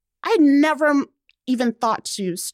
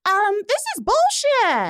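high, blunt mock reply; deadpan retort; 12 semitones higher than usual. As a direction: toss it off like an obvious verdict. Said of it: "And I was like".

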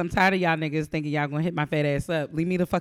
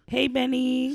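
high shout across the room; calling out; 9 semitones higher, 4 dB louder, slower than usual. Real, not acted. Calling out a greeting to Benny. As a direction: call out to Benny, loud and high.

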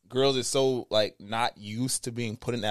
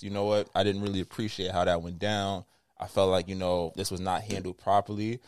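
calm cadence; 3 semitones lower than usual. Shown as a demonstration. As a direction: talk it over calmly and gently. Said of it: "in this cadence, in this voice".

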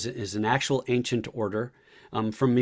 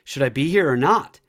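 voicing Hamlet; 6 semitones higher, 6 dB louder than usual. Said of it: "Hamlet's coming out and asking the audience".

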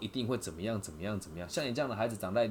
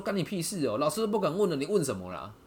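imitated rude retort; 6 semitones higher, 3 dB louder than usual. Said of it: "他说".

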